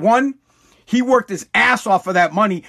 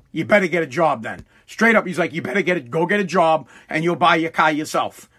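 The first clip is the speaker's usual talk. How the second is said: a hint of a stern father, lower; stern dad; 4 semitones lower than usual. Talking to his son who wants a car, a lower, lightly stern father. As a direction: voice dad lightly, low and firm.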